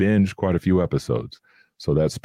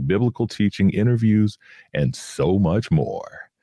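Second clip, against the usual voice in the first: commercial voice. Shown as a demonstration. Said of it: "that's my commercial voice".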